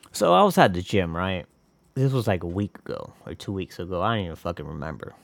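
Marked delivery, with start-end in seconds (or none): none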